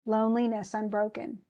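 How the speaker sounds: LONE-li-NESS un-BRO-ken; alternating stress. Shown as a demonstration. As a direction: scan Loneliness, unbroken in steady beats. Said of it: "stressed, unstressed, stressed, unstressed".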